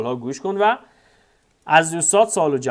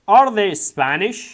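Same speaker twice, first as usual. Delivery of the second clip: drawn out and louder; very slow model reading; 6 semitones higher, 6 dB louder, much slower than usual. Shown as a demonstration. Teacher modelling the question for students, slow and loud. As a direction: lay it out word by word. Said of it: "teacher models textbook question".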